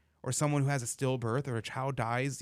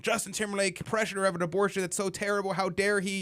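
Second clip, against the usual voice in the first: mocking outrage; 7 semitones higher than usual. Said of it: "people are freaking out and saying".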